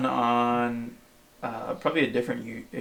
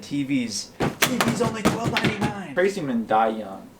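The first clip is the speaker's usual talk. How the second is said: hard sell ad; 6 semitones higher than usual. Retold or imitated. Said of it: "he said".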